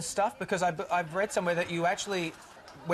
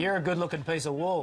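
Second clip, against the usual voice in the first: Australian accent. Shown as a demonstration. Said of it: "I just have to say it back after".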